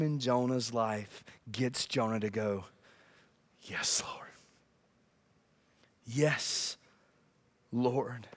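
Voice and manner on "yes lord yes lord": very soft, low, near-whispered submission; hushed surrender. Acted. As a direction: give in to God, word by word. Jonah finally surrenders in prayer.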